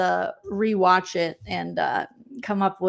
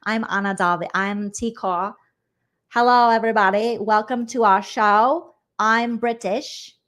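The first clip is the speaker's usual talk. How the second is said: put-on pop-group persona, British accent. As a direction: imitate a hammed-up British pop-group introduction. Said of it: "playing up the British accent".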